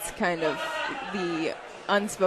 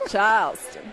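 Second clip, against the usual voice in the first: Charleston with the R dropped, "Chahlston"; Southern accent. Shown as a demonstration. Repeats city in Southern accent.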